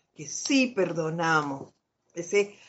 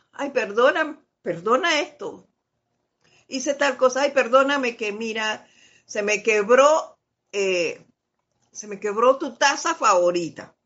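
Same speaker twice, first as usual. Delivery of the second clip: apologetic friend; 3 semitones higher than usual. Retold or imitated. Friend confessing the broken favorite cup, lightly apologetic. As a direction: plead sorry over a broken cup, mildly. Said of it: "la persona te dice".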